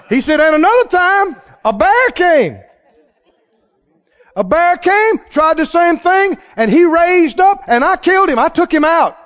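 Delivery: high, loud, fervent declaration; preaching at full force. Acted. Preacher as David boasting of lion and bear, loud and high. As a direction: proclaim victory with fire.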